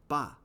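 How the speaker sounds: "ba" punched as the strong beat; iambic demo. Shown as a demonstration. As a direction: hit "ba" as a stressed syllable. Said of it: "it's five iambs per line".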